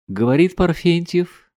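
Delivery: high, drawn-out happy announcement; joyful announcement. A narrator's reading. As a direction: announce the name with joy. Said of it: "слышу радостный голос". (радостно, нараспев)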